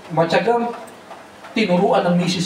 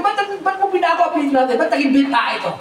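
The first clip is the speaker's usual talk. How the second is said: angry father quote; 8 semitones higher, faster than usual. Retold or imitated. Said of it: "nagalit yung tatay ko".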